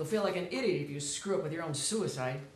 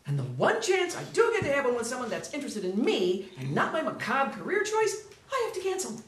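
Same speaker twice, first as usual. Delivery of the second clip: rising rant; 5 semitones higher than usual. Acted. Officer ranting about cancelled date.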